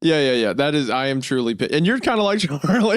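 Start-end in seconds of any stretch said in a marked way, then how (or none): none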